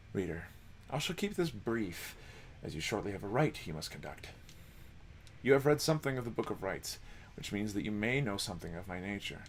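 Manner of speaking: hushed, measured storyteller; a hint of a courteous old-world minstrel; softly spoken minstrel. Reads the minstrel's lines.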